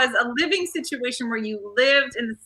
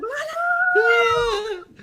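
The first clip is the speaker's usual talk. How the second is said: very high, strained shout of surprise; startled squeal caught with her dress up; shocked what. Retold or imitated. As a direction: yelp it as the curtain opens on you. Shock as the curtain opens.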